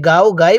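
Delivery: "গাও", "গাই" with open aa; gaa-o, gaa-i for "গাও", "গাই"; wrong vowel. Shown as a demonstration. Teacher warns against this misreading, "গাও", "গাই" with open aa. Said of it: "তাহলে কিন্তু পড়াটা".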